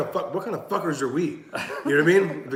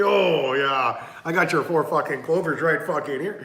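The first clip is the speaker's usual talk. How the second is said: mock Irish accent. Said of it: "making fun of Irish people".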